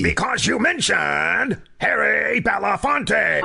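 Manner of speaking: stern accusation. Acted. Agent accusing.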